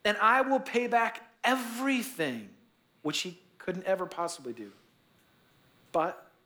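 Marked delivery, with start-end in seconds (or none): 0.0-2.5 begging. Retold or imitated. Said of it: "he begged".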